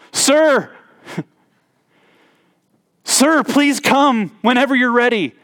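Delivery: high, stiffly polite mock butler tone; mock formal plea. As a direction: play a child oddly formal with dad, half-laughing. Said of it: "they don't cry out".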